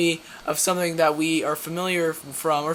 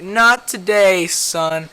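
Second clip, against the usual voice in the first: tough heroine; 5 dB louder, much slower than usual. Acted. Supergirl quote in a fight.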